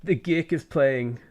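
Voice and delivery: a lightly posh south Dublin D4 voice; breezy south Dublin rich-kid talk; posh D4 Dublin accent. Acted. Doing the D4 accent for chat, a light posh Dublin lilt. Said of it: "my D four accent".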